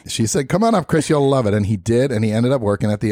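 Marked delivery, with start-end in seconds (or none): 0.5-1.5 put-on Scottish accent. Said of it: "I'll just wind up talking Minnesotan".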